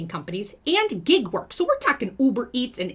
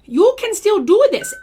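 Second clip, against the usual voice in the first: rallying cry; 9 semitones higher, 8 dB louder than usual. Acted. Cheering viewers on to comment.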